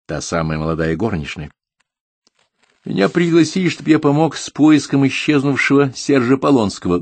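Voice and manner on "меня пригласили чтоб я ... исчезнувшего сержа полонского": much higher, raised public announcing voice; loud announcement. A narrator's reading. Guest explains the search to the whole company, announcing loudly. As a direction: announce it to the whole table, pitched up. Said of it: "громко объявил Дронго".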